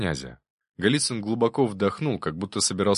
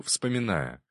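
usual speaking voice

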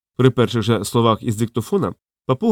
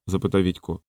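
ordinary delivery, nothing marked

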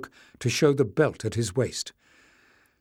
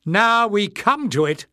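high, loud outburst; passionate shout; 9 semitones higher, 6 dB louder than usual. A narrator's reading. Clef confronting the leader, passionate high shout. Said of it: "shouted Clef passionately".

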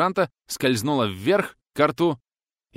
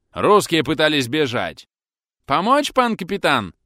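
higher, louder call; called through door; 5 semitones higher, 8 dB louder than usual. Acted. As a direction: shout the offer through the door. Pole calling through door.

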